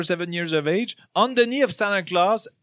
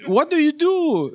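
mock Santa; 8 semitones higher than usual. Santa asks child.

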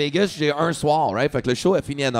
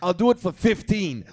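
slow haggle; 3 semitones higher than usual. Retold or imitated. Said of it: "il me crie après".

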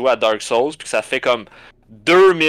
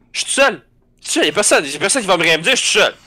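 higher, rising intensity; building up to a rage; 4 semitones higher, faster than usual. Retold or imitated. Alone in the basement, winding up before screaming. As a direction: psych yourself up to let loose.

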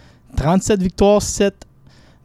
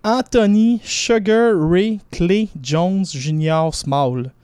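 slow English boxing nickname with a Québécois French accent; 3 semitones higher, slower than usual. Real, not acted. Sports pundit reading English nicknames, Québécois French accent. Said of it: "mon accent".

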